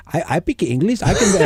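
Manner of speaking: lightly mocked foreign-accented English. Foreigner insisting on his English to the speaker, mock foreign accent. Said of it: "some foreigners come like".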